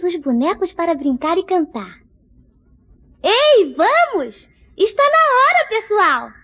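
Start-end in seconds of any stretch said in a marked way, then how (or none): 3.2-6.3 calling out. Acted. Yaya calls the toys to play.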